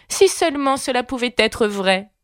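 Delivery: voix plus aiguë, à peine rêveuse; lièvre de Mars qui murmure. A narrator's reading. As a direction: souhaiter tout bas, voix de lièvre. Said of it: "murmura le lièvre de Mars". (le lièvre de Mars, murmure rêveur à peine marqué)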